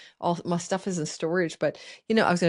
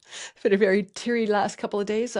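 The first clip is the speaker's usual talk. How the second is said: teary laugh; 3 semitones higher than usual. Real, not acted. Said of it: "I'm gonna tear up".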